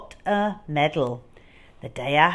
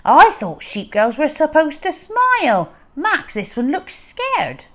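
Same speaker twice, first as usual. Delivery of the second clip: gruff thief voice; 9 semitones higher, 7 dB louder than usual. Acted. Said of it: "Luther said".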